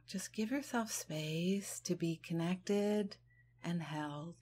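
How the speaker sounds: gentle, unhurried meditation guidance; guided meditation. Real, not acted. Leading listeners to release worry on the exhale, guided meditation.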